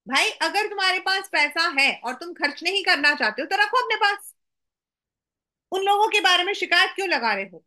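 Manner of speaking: a quick, lightly cross scolding; mildly angry. Acted. Narrator of the poem to complaining passers-by, mildly angry.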